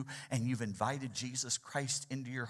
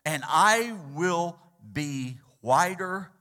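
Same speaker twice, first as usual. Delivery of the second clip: loud, rising plea, wash me; pleading cry, voice climbing higher and louder; preacher voicing a desperate prayer for cleansing; crying out to God; 6 semitones higher, 10 dB louder, slower than usual. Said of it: "he cried out to God".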